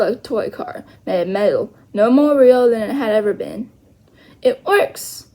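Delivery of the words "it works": whispered in awe; barely voiced, all breath. Omri breathes in amazement at the real teepee. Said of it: "breathed Omri".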